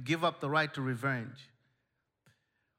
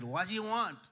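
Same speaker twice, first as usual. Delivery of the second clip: curt attitude; 5 semitones higher than usual. Retold or imitated. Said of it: "picked up the phone with an attitude".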